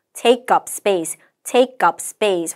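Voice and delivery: "take up space" joined up, with a hard P in space; linked and tensed. Shown as a demonstration. Teacher models the phrase for students, linked "take up space". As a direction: slowly link "take up space" as "tay-kup space". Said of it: "확인해 주세요".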